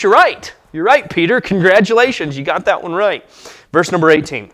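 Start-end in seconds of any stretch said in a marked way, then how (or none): 0.0-3.2 lifted, bright voicing of Jesus's approval; lightly voiced Jesus, pleased; pleased praise. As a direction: affirm Peter like a proud teacher. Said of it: "And Jesus says".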